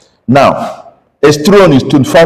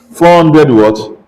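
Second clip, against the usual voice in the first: slow and deliberate; much slower than usual. Shown as a demonstration. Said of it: "I'm talking like this".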